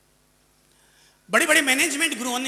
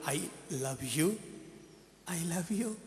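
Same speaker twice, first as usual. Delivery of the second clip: gentle love; 5 semitones lower, 10 dB quieter, much slower than usual. Acted. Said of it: "जाकर बोल".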